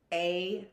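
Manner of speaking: apostrophe broken into syllables, a-pos-tro-fee; phonetic pronunciation. Shown as a demonstration. Teacher reading out the pronunciation guide, apostrophe sounded out phonetically. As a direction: read apostrophe as it is spelt, with A as "ay". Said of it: "I sometimes pronounce things phonetically".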